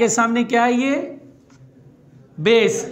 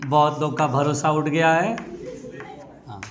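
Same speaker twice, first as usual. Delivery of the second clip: low, resigned student musing; mock-weary grumble, lower and subdued; disillusioned student; 7 semitones lower, 3 dB quieter than usual. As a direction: muse like a student who has lost faith. Voices students' disillusion with circular motion.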